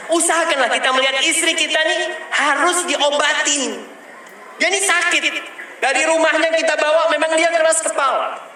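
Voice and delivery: suara tinggi berapi-api; ceramah semangat. Real, not acted. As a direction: dakwah dengan nada tinggi penuh semangat. (ustaz menasihati jamaah, nada tinggi bersemangat)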